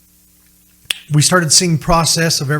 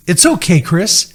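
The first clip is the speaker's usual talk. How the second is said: raised, higher emphatic reassurance; urging; 5 semitones higher, 4 dB louder than usual. Retold or imitated. Joel tells the father it's okay, urging. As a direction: call out permission, pitched up.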